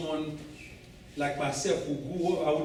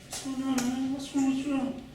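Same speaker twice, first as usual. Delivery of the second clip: high-pitched imitation American street talk; put-on American accent; 8 semitones higher than usual. Man confronting a stranger, hiding his Haitian accent in put-on American. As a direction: fake an American accent to mask your own. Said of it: "wouldn't pick up my accent".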